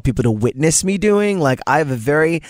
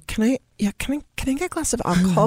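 put-on high, tipsy slurring drunk lady; drunk Kristen Wiig; 9 semitones higher, 4 dB quieter, faster than usual. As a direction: play it like a drunk on a plane. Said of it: "Kristen Wiig is drunk on the plane".

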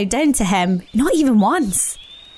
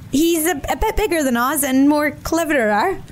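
small rabbit voice; 5 semitones higher than usual. Acted.

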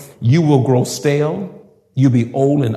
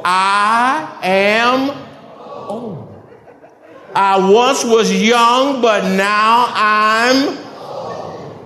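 laughing; 5 semitones higher, much slower than usual. Acted. Laughing mock lament.

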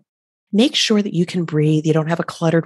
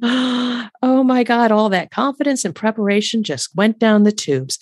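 mock dismay; 6 semitones higher than usual. Voicing inner panic after pushback.

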